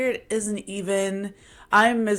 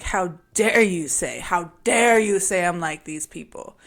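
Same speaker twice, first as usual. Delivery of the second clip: indignant; 5 dB louder than usual. Retold or imitated. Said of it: "I first got angry".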